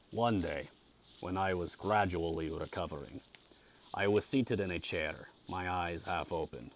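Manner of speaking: measured audiobook reading; story narration. A narrator's reading. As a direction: read a classic novel aloud with care. Reads the novel aloud.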